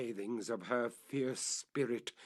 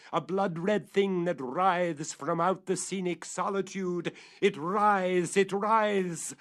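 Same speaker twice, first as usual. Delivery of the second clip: louder and higher, building horror; rising dramatic climax; 8 semitones higher, 7 dB louder than usual. A narrator's reading. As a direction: swell it into a horrified cry.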